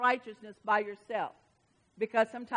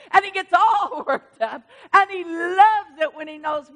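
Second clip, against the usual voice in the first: louder, laughing through the words; laughing and crying; 5 semitones higher, 10 dB louder than usual. Real, not acted. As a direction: let the laugh and tears break through.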